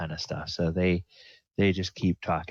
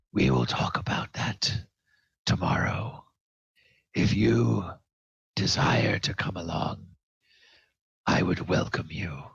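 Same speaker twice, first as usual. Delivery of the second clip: solemn dwarf vow. Acted. GM voices Barak calmly.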